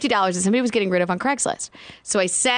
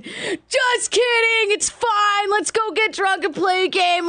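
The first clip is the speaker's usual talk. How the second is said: mock teasing; 12 semitones higher, much slower than usual. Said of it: "cracking up in the kitchen".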